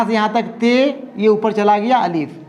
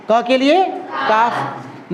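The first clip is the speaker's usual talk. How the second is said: drawn-out letter naming; much slower than usual. Shown as a demonstration.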